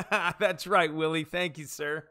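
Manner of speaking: amused, with laughter around it; laughing thanks. Real, not acted. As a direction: laugh as you thank the viewer.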